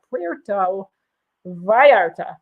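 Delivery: PUERTO, then VALLARTA, slowly sounded out in tentative Spanish; attempted Spanish accent. Shown as a demonstration. Host trying to say the port properly, attempted Spanish accent. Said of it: "sounds like a terrible accent".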